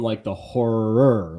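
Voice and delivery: horror with rolled-out, heavy R's, slowly. Retold or imitated. Imitating how a friend says horror. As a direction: lean hard on every R in horror. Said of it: "you put a lot of emphasis on the R's".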